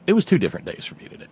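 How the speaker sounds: rattled off quickly; fast restart. Real, not acted. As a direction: rush through the restart. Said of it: "ditch the Carnival Barker voice now".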